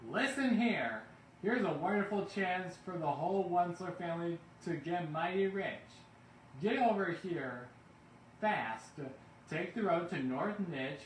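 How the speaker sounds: high, loud eager pitch; rally the whole family to get rich; loud excited phone call. A narrator's reading. Calling family on radio phone.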